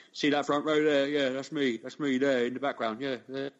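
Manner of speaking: a cheeky Cockney show-off pointing at himself; mock Cockney brag. Mocking TV politician, bragging in mock Cockney accent. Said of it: "he doesn't have a Cockney accent".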